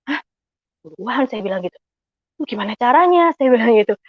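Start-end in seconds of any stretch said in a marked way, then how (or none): 0.1-1.2 mildly baffled double take; retold bewilderment. Wife puzzled by husband's request to bring a tithe, retold bewilderment. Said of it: "Saya bingung". 2.4-3.3 higher-pitched puzzled question; mildly at a loss, asking oneself; retold bewilderment. Wife wondering how to give a tithe, mildly puzzled. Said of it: "Saya bingung gitu".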